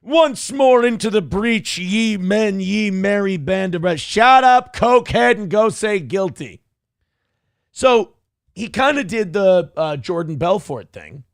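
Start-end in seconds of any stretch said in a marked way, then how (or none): 0.0-4.0 a light parody of a Shakespearean king's battle cry; mock Henry the Fifth. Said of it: "fucking Henry the Fifth". 4.0-6.6 a loud scornful shut up; scornful yell. Real, not acted. Mocking the defendant.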